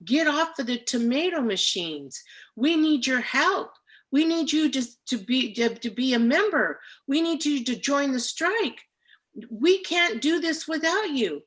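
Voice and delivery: rally the pickers to walk off; rallying strike speech. Retold or imitated. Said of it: "I'm gonna say".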